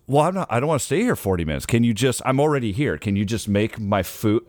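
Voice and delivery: pushy customer. Retold or imitated. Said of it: "she goes".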